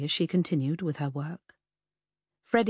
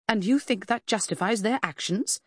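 sharp snap; 4 semitones higher than usual. Acted. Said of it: "Freddy snapped".

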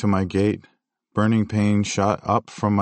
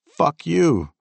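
much higher, louder angry yell; 8 semitones higher, 4 dB louder than usual. Retold or imitated. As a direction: hurl it after him. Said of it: "I yelled".

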